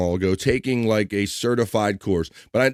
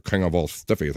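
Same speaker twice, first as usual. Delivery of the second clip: laughing; 5 semitones lower, 5 dB quieter than usual. Real, not acted. Laughs at rude chat name.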